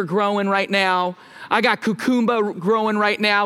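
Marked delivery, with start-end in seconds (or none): 1.8-2.5 "cucumba" with a Jamaican lilt, dropped final r; Jamaican pronunciation. Shown as a demonstration. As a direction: say "cucumba" the Jamaican way, ending in an open "ba". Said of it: "which is Jamaican for cucumber".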